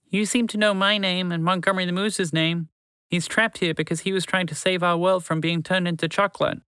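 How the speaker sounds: high, earnest little mouse voice; pleading mouse. A narrator's reading. Mouse to horse, pleading to free the moose. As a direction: beg the horse to help your friend.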